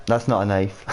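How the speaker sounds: lightly voiced Australian movie catchphrase; playful Australian film-hero imitation; Crocodile Dundee. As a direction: quote it in a mock Aussie accent. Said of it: "Crocodile, don't die, mate".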